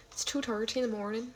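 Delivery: tentative attempt at an Irish accent; rough, half-remembered Irish accent. Shown as a demonstration. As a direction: try out an Irish lilt, lightly. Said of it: "it's kinda what they sound like to me".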